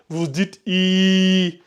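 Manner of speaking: i held long and slow; i stretched to two counts; long i vowel. Shown as a demonstration. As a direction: draw the i out for two seconds. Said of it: "vous allongez de deux secondes".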